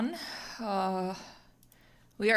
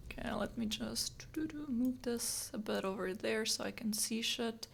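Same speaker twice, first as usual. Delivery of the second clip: whispering; 2 semitones higher, 7 dB quieter than usual. Real, not acted. Adjusting camera, whispered.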